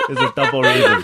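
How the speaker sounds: high-pitched words through laughter; laughing. Real, not acted. Listener joking about the storyteller's mom, laughing. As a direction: crack up while talking.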